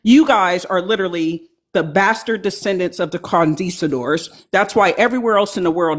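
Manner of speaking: mouth full. Real, not acted. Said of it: "I'm sorry I got food in my mouth".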